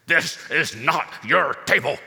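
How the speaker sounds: put-on stern father in a heavy German accent. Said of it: "in a heavy German accent".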